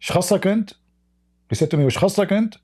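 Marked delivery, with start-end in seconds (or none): 0.0-0.7 retold angry retort. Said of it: "He got angry". 1.8-2.6 retold angry retort. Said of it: "He got angry".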